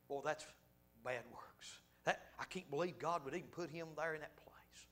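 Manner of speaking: hushed, doubtful muttering about the preacher; doubting whisper. Retold or imitated. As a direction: whisper it like gossip doubting God's plan. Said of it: "you know what they would have said".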